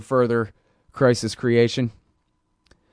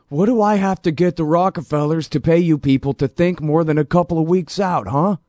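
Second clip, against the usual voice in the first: put-on Kissinger accent; 5 semitones higher than usual. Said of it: "that was my Kissinger accent".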